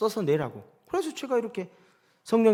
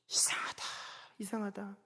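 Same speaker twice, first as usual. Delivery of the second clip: soft, breathless whisper; whispered wonder; 2 semitones higher, 16 dB quieter than usual. Retold or imitated. Pastor marvelling privately at God's work, whispering. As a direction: murmur it to yourself in amazement.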